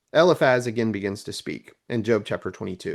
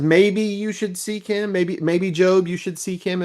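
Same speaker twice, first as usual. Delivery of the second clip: higher-pitched, tentative coaxing; gentle suggestion; 5 semitones higher than usual. Retold or imitated. Eliphaz gently advising Job, mild coaxing. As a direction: lightly imitate a kindly elder's advice. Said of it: "It's sort of a gentle entrance".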